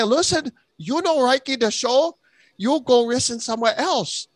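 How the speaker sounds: high, hammed-up put-on accent; mock Asian accent. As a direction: play a foreign character shooing listeners off. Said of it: "even the Chinese people would agree".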